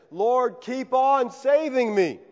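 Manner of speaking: "keep on saving me" slow, leaning on "on"; stress on keep on. Shown as a demonstration. Preacher shows the present imperative, "keep on" slow and stressed. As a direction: stretch "keep on" slowly to show it continues. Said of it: "this request is a present imperative".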